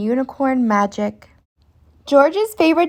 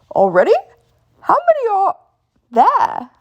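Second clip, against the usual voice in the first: grumbling; 11 semitones higher, faster than usual. A narrator's reading. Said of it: "grumbles Daddy Pig".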